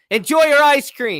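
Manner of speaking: very high shouting. Retelling what a Jets player yelled to the crowd: imitating someone yelling. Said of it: "he's yelling out".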